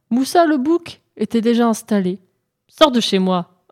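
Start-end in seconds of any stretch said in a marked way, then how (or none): 2.7-3.6 ordering out. Acted. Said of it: "ordonna Mbolo".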